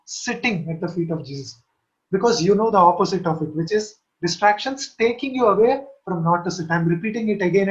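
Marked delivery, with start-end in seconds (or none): 0.0-1.6 "sitting" set apart and leaned on; stress on SITTING. Real, not acted. Preacher stressing one word to his listeners, stress on "sitting". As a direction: put the weight on "sitting", then let the rest drop. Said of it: "I'm stressing this word".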